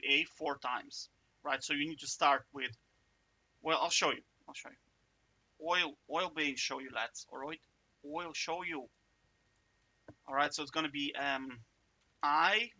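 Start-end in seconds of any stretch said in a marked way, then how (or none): 4.5-5.7 breathy whisper, slow and soft; whispered aside. Pretend. Teacher whispering the phrase to himself, very softly. 5.7-7.3 playful light Irish lilt, oil for I'll; mock Irish accent. Teacher joking to students in a mock Irish accent. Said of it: "but now I'm Irish". 8.1-8.9 mock Irish accent. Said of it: "but now I'm Irish".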